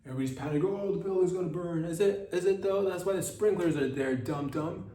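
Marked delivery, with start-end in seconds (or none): 0.6-1.8 mock panic. Mocking panicked people. 1.8-4.9 scoffing. Acted. Scoffing at the panickers.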